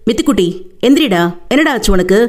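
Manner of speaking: quick, worried calling to a fainted sister; mildly anxious plea. Acted. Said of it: "பதட்டமாக".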